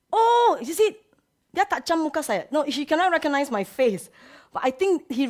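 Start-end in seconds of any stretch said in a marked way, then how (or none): 0.1-2.5 excited. Retold or imitated. Voicing her own reaction.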